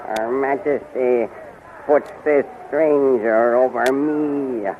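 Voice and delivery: drawn-out, low sinister threat; slow menace. Acted. Jealous magician mutters threat about his queen, slow menace. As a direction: plot revenge under your breath.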